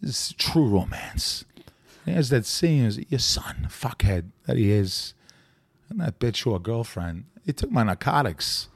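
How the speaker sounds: halting impression with odd pauses; Walken. Impressionist doing a True Romance scene, Walken impression. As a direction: break the phrases up, lightly voiced impression. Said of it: "Walken, I remember".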